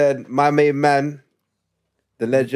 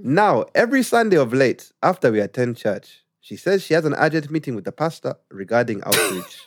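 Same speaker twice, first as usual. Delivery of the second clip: put-on Ugandan accent; 2 semitones higher than usual. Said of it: "when I read it in Ugandan accent".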